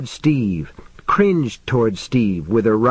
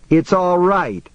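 higher-pitched relieved exclamation; reassuring cry; 6 semitones higher than usual. A narrator's reading. Man comforting frightened companion with an arm round her, crying out. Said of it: "he cried, almost laughing".

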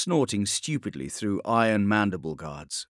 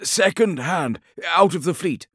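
higher, louder secondhand report; officer voice; 8 semitones higher, 5 dB louder than usual. Acted. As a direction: pass on the rumor. Alibus explains.

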